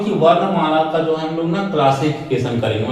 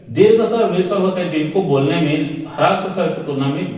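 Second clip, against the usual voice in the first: each word set down clearly for the class; measured dictation to students; careful dictation. Shown as a demonstration. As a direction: dictate so they can write it. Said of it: "ध्यान से सुनना मैं जो बोल रहा हूं".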